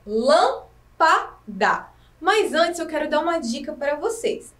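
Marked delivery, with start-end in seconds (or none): 0.0-1.9 "Lâmpada." stretched very slowly, each syllable apart. Shown as a demonstration. Teacher shows children the syllables, very slowly. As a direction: split "Lâmpada." into slow separate beats. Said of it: "Vamos separar a palavra lâmpada".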